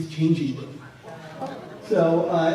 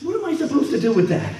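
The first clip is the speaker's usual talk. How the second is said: mock bafflement; 8 semitones higher, faster than usual. Actress baffled by his odd tip.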